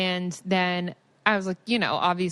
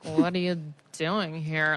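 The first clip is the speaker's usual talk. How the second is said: put-on drunk laughing; 3 semitones lower, slower than usual. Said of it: "I go, like".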